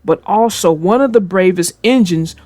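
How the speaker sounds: put-on storybook reading voice for kids; gentle read-aloud narrator; story narration. A narrator's reading. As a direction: read it like a bedtime tale. Narrates a children's train story.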